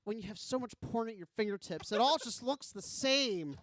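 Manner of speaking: put-on bored Valley Girl accent; whiny Valley Girl accent. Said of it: "you went with a Valley Girl accent".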